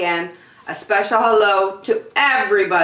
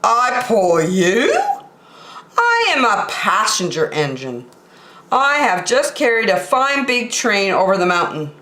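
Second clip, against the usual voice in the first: snooty engine; 3 semitones higher than usual. Acted. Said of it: "the shiny new engine snorted".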